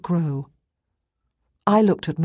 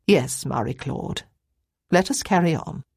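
woman from darkness; 2 semitones lower than usual. Acted. New woman's voice from the dark.

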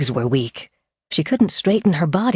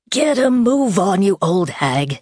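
mocking sneer; 4 semitones higher than usual. Villain mocks old woman.

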